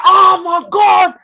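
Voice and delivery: loud, high mock-British outcry. Wife mimicking her husband's disgust at food, loudly and very British. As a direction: exaggerate a British husband's noisy complaint. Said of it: "He's, he's so British".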